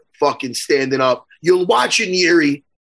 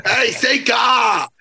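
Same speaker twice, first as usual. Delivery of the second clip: teasing call; 5 semitones higher, much slower than usual. Real, not acted. Teasing, calls for accent sound.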